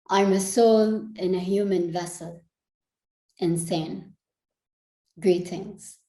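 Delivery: spoken-word poem, measured and deliberate phrasing; poetry recital. Acted. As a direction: recite it as a poem, letting phrases land between pauses.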